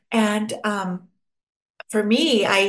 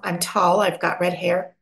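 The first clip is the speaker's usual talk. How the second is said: ordinary talk, nothing marked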